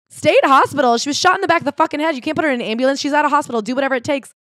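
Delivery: demanding, can't believe what he hears; outraged disbelief. Retold or imitated. Outraged family at hospital.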